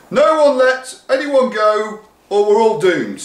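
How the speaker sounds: high, loud panicked cry; shouting. Acted. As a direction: warn the crowd. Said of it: "shouted someone".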